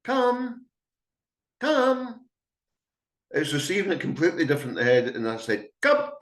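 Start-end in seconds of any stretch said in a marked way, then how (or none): 0.0-2.2 high, sharp shout of come; shouted command. Shown as a demonstration. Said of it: "If I was to shout to a dog". 5.8-6.1 high, clipped order; commanding. Shown as a demonstration. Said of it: "almost like a, "Do it".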